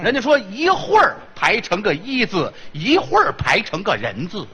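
一会儿 con la r retroflessa ben marcata; 一会儿 detto arrotondando la finale in erhua. Shown as a demonstration. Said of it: "那是儿化".

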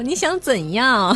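slow Taiwanese accent, drawn out. Shown as a demonstration. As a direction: put on a Taiwanese accent, slowly. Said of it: "得用台湾腔说".

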